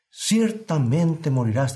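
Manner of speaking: slow, grave divine warning; voice of God. Acted. Preacher voicing God's warning to Adam, slow and grave. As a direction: let each word fall like a verdict. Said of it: "dijo Dios".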